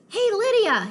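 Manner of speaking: high, loud call up the stairs; yelling. Acted. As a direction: shout her name upstairs. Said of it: "he yelled".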